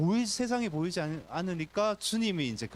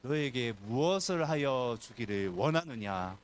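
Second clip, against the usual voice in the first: gentle question; 3 semitones lower, slower than usual. Acted. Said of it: "예수님 말씀하시는".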